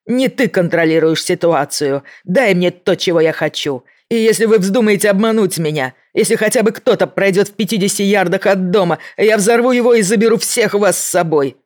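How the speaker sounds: loud, high unhinged threat; menacing shout. A narrator's reading. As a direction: rant like a cornered madman. Mankuza threatens to blow them up.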